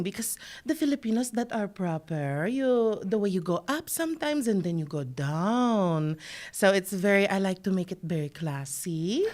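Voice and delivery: singsong Filipino accent, rising and then falling; classy, lilting Filipino English; proper Filipino accent. Shown as a demonstration. Comedian showing hosts how proper Filipinos sound, singsong Filipino accent. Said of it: "That is the kind of accent".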